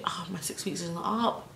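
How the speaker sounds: whispered panic; panicked whisper. Retold or imitated. Teen panicking inwardly as mum spots the piercing.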